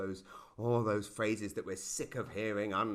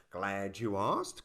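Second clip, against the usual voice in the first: slow smug politician; 5 semitones lower, much slower than usual. Retold or imitated. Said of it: "they said".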